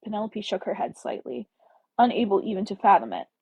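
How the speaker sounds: reading a romance novel aloud, slightly stilted; story narration. Acted. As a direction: read the chapter like an audiobook, a bit unsure. Reads a novel chapter aloud.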